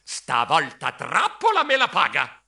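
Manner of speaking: slow, emphatic threat; vengeful squeak. Acted. Mouse swearing revenge on cousin, slow squeaked threat. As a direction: vow revenge, stretching the words.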